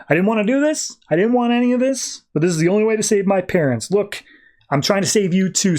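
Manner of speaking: high, strained, pleading justification; anguished villain. Retold or imitated. Ulysses pleading with Superman as he attacks, high and strained. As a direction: plead your case while you blast him.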